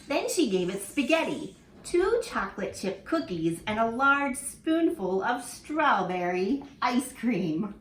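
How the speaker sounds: lively storybook reading for little ones; reading to children. Acted. Teacher reading a picture book to her class, lively and expressive. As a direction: read it like story time in class.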